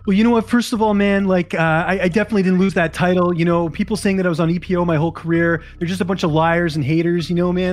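brash trash talk in a thin put-on fighter voice; T J Dillashaw impression. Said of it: "That was not my best impression".

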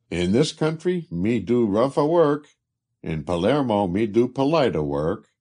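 mimicking the Italian. Colin mimics the Italian laborer in the dark, mock Italian accent. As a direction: Colin parrots the laborer's broken English. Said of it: "Colin's voice mimicking".

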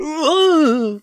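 high, loud mock falling whoop; imitated yelp of a tumble; falling cry. Co-host imitates girl falling after celebrating, loud mock cry.

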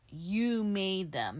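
slow, drawn-out air quotes; spoken air quotes. Retold or imitated. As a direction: stretch it out as if quoting an accusation. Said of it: "making the quotation marks".

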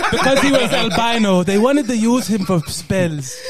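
put-on comic African accent, matter-of-fact. Villager explaining the horror, African accent. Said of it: "doing that accent".

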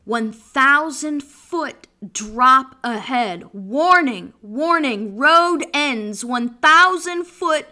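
slow, loud warning announcement; deliberate, heavily spaced danger notice; dramatic sign reading. Acted. Reads warning sign aloud dramatically.

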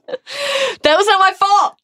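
high and slow, hurt denial; shrill defensive Bellatrix. Acted. Bellatrix defending herself to Snape, high slow hurt wail. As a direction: wail it like a flustered fanatic.

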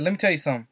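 "something" slurred into "sum'n"; lightly imitated Southern "something". Shown as a demonstration. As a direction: drop the middle of "something". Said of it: "she doesn't say something".

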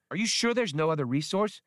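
high, chirping robot voice; small computer chirping a question; chirpy little droid. Acted. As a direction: chirp it like a tiny eager droid. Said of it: "Max chirped".

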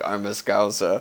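mock Liverpudlian with a heavy French accent; French-tinged Liverpudlian accent. Podcaster mimicking Sacco's attempt at a Liverpudlian accent, French-tinged mock Scouse. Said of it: "with the f-, heavy French accent, and then he tries to do, like, a Liverpudlian accent".

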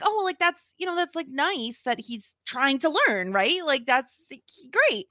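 high, eager mock approval; retold gushing. Podcaster mocking her own eager reaction to the show, high and gushing. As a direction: gush about it in a high, sing-song voice. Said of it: "And so I was like".

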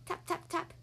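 soft, whispery tap sounds; hushed tapping. A narrator's reading. Noise from inside the egg, hushed tapping. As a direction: tap lightly with a near whisper.

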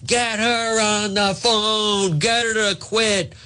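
high mock yell at staff, slow and pressed; hammed-up angry boss barking orders; bellowing at his aide in mock fury. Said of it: "screaming at his staff".

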